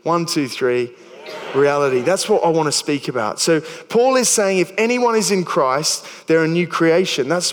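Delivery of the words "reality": Aussie accent. Shown as a demonstration. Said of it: "we can all say with an Aussie accent".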